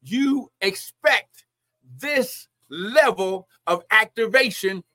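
slow, emphatic preacher delivery; forceful preaching. Real, not acted. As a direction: drive each phrase home like a preacher.

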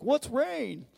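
high, scoffing mock question; mocking onlooker. Mockers scoffing at Noah and his ark, high and jeering. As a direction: sneer it like a doubting neighbor. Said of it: "They're like".

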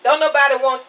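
ordinary delivery

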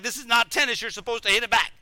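high-pitched exasperated complaint; acting out a fed-up tennis partner; frustrated. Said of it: "he's getting frustrated".

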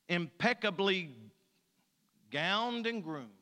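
measured, rhythmic reading with a falling refrain; poem recitation. Acted. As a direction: land each "membership is" line. Continues the poem.

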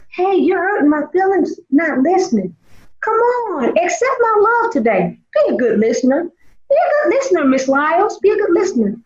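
kind voice. Retold or imitated. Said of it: "He speaks in a kind voice".

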